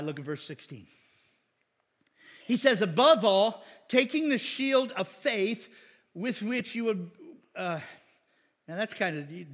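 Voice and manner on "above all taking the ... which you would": slow careful reading. Shown as a demonstration. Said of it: "don't say that too fast".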